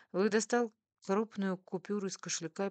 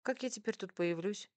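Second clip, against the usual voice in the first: higher, mildly put-out complaint; grumbling; 4 semitones higher than usual. A narrator's reading. Wife worries about returning to the cafe, grumbling. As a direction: lament it with light exasperation. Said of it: "ворчала я".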